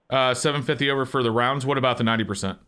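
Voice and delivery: disguised voice through a voice changer; masked caller voice. Real, not acted. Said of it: "I am using a voice changer".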